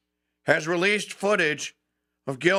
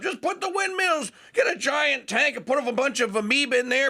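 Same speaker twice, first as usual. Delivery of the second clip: mocking green advocate; 9 semitones higher than usual. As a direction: ham it up like a clueless eco-evangelist. Mocking net zero advocates.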